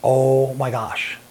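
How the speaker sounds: drawn-out, very slow stunned gasp of words; stunned realization. Retold or imitated. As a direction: let the recognition dawn slowly. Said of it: "And I went".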